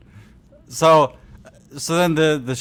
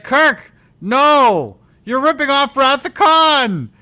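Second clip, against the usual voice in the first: high, loud hammed-up cry; mock yell; 12 semitones higher, 8 dB louder, slower than usual. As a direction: shriek it like a panicked friend. Character yells in retold scene.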